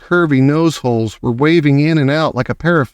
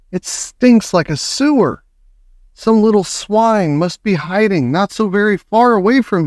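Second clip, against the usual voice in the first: disgusted witches; 9 semitones higher than usual. A narrator's reading.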